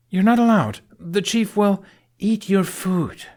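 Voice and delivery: teasing impression of a fussy scold; mocking imitation. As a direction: parrot his scolding to tease him. Astrid mocks Fishlegs' warning.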